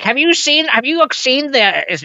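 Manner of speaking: high, eager imitation of a friend; imitating AJ. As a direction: pester like an eager film nerd. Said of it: "A J's always like".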